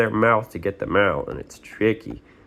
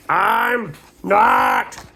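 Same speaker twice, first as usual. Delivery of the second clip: grumpy denial; 4 dB louder than usual. Acted. Grumpy son denies to mom.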